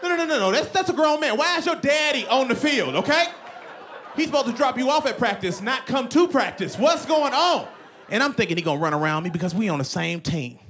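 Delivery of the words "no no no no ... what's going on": high, frantic pleading; mock panic. Player panicking at the grown man, high mock alarm. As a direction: squeal in comic alarm.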